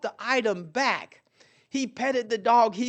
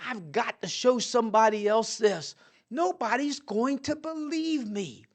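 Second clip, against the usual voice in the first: put-on excited boy. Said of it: "The boy was so excited".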